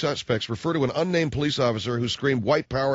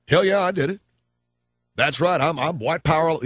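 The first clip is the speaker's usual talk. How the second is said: mock racist brag; 3 semitones higher than usual. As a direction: brag it like a proud bigot. Imitating racist bragging.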